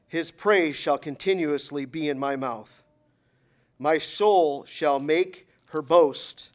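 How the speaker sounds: slow, loud, measured scripture reading. Real, not acted. Preacher reading the psalm to congregation, slow reading. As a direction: proclaim each phrase slowly, with weight. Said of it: "I'll try to read it slowly".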